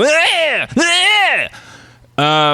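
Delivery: yelling out rage at an empty chair; primal yell. Shown as a demonstration. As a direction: show how he yells at the chair. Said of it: "I can go".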